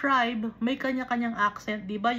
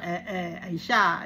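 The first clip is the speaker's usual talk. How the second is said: lightly imitated Batangueño punto; Batangas accent; 3 semitones lower than usual. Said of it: "Pag Batanggenyo naman". (ginagayang puntong Batangueño)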